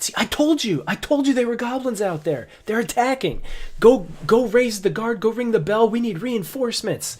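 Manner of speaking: guard bellowing for reinforcements; excited guard. Acted. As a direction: shout orders to raise the alarm. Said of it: "you hear the one guard".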